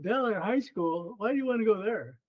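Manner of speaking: retold incredulous question with a rising lilt; imitated disbelief. Director questions the young coach's choice of school, incredulous.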